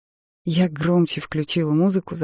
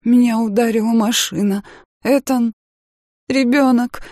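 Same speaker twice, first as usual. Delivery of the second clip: panicked; 6 semitones higher, 6 dB louder than usual. Acted. Panicked realisation of the accident.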